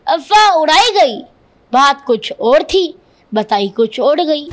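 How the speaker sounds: measured, emphatic declamation of couplets; verse recitation. Acted. Boy quoting remembered lines to defend himself, declaimed recitation. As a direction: recite each line as a punchy phrase, pausing between.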